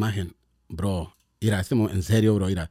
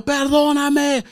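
retold crying plea; 11 semitones higher, much slower than usual. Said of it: "Yo gritando".

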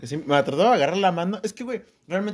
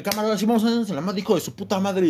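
challenging; 4 semitones higher, faster than usual. Retold or imitated. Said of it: "Le dije".

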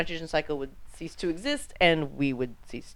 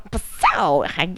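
echoed zap sound; 2 semitones higher than usual. Pretend. Echoing jokey zap term.

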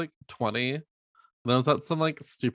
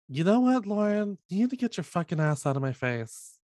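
retold angry outburst; 7 semitones higher than usual. Retelling a fast food fight with a coworker, raised and angry. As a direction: voice jumps up in a heated retold telling-off.

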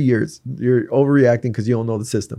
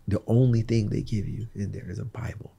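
whisper; 5 dB quieter than usual. Real, not acted. Telling of jail hole, hushed.

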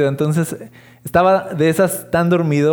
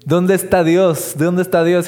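whiny higher demand of where God is; hammed-up higher cry of where God is; complaining to God; 4 semitones higher, 3 dB louder than usual. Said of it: "Así de".

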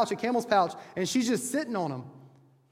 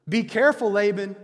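louder warning; 6 dB louder than usual. Retold or imitated. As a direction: repeat it louder, as a firm warning. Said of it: "It's a warning".

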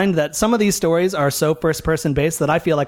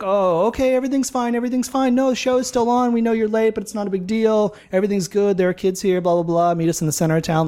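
put-on higher, European-accented kid promising all is fine; a local kid's European accent, pitched up; 5 semitones higher than usual. Local kid reassuring the late band by phone, European accent. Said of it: "I'm gonna drop the accent for him".

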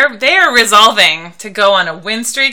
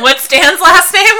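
laughing; 10 semitones higher, 9 dB louder than usual. Real, not acted. Teasing question, laughing loud.

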